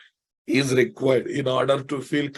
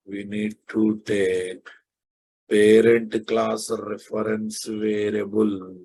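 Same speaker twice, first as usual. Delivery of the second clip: word by word, slowly; slow dictation; 3 semitones lower, slower than usual. Shown as a demonstration. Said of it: "slow dictation".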